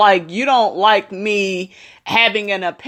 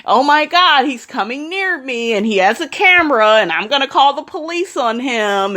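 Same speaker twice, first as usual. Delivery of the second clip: lightly voiced frightened woman, a bit higher; mock panic; 5 semitones higher than usual. Mocking a scared white woman calling the police. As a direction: imitate a scared caller, half in jest. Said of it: "she is so afraid".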